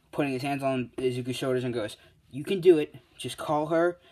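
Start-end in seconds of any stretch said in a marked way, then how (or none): 2.3-4.0 much louder, pushy encouragement; pep talk shout. Acted. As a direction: shove him forward with your voice. Bakugo pushes him, hands on shoulders.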